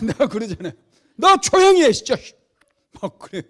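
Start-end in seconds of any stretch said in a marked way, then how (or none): 1.2-2.2 very loud, high angry shout; full-force scolding yell, replayed; re-enacted bellowing rebuke. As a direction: act out losing patience with a heckler. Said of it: "막 내가 막 그렇게 호통치고".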